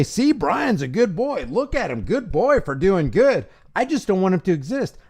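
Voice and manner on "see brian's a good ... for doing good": put-on slow, condescending "good boy" voice, like praising a dog; sneering imitation of an authority praising an obedient citizen; mock patronizing authority. Mocking authorities who praise Brian as a good boy, slow and condescending. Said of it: "I don't want them to say".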